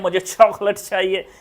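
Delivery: English visitor's Hindi with aspirated चॉकलेट; imitated English accent. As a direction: mimic an English accent, puffed CH. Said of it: "अंग्रेज हमारे गांव में आकर बोलते हैं".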